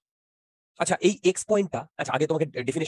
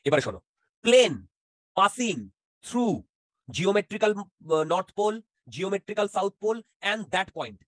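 slow dictation; much slower than usual. Shown as a demonstration. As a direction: dictate the definition word by word. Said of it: "সেটা শোনো". (ধীরে ধীরে থেমে থেমে বলা)

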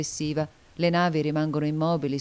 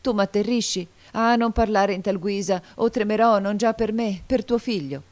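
higher, louder terrified protest; sustained raised-voice entreaty; narrated cry; 5 semitones higher, 5 dB louder than usual. A narrator's reading. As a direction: cry out and plead in alarm. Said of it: "gridò".

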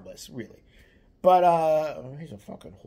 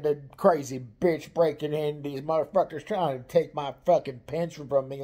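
ranting brother; 5 dB louder than usual. Retold or imitated. Brother's quoted rant on the phone.

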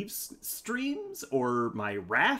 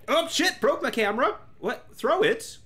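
high, louder startled cry; surprised yelp; 11 semitones higher, 4 dB louder than usual. Real, not acted. Streamer startled when the camera breaks, louder and higher. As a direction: blurt it out in surprise.

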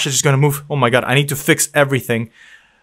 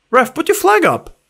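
frantic call for the flag; yelling at ref; 12 semitones higher than usual. Real, not acted. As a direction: shout up at the linesman. Yelling at referee for offside.

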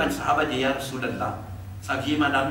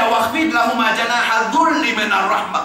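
Quran recitation; 2 semitones higher, much faster than usual. Acted.

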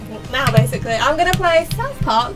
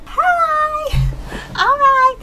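loud, high burst of excitement; excited; 8 dB louder, much slower than usual. Real, not acted. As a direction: shout it out, pumped up. Hyped start of karaoke.

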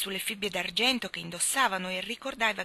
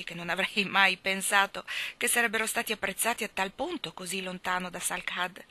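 ordinary delivery, nothing marked

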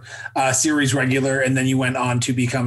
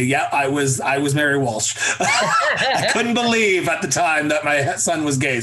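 laughing parent quote. Retold or imitated. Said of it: "and they say".

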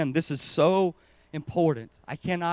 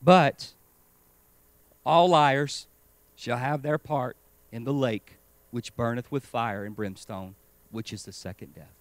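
familiar quoting; 3 semitones lower than usual. Shown as a demonstration. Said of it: "I want to quote this how we read this passage".

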